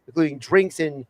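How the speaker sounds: steady radio host ad read; sponsor read. Acted. Host reintroducing segment and tavern sponsor, radio ad read. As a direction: rattle off the sponsor copy in an even flow.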